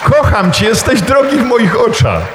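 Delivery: high, loving call of the names; God calling. Acted. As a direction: call each by name with love. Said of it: "Woła do ciebie".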